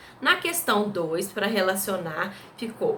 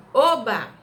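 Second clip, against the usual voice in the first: louder, delighted Oba; joyful cheer; 3 semitones higher, 6 dB louder than usual. Shown as a demonstration. Teacher modelling an interjection, a delighted shout. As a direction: cheer like good news just came. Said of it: "Pra dar aquela entonação".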